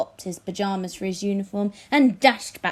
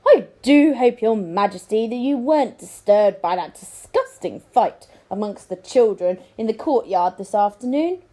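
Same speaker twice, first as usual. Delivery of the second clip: louder, smooth scheming lord; oily courtier; 6 dB louder than usual. Acted. Lord feigning concern to the king, louder and smooth. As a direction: lay it on to the king with false concern.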